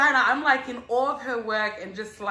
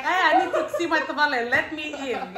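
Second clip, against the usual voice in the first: playful mock plea; 6 semitones higher than usual. Imagined banging on neighbors' doors.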